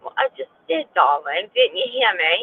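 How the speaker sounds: lightly put-on posh English voice; British accent on request. Streamer answers chat's request in a light British accent. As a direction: tease chat in a mock British accent. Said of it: "Do the voice".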